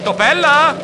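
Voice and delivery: high, loud frantic call; panicked call for help. A narrator's reading. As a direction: cry out for help, out of breath. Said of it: "squittì affannato".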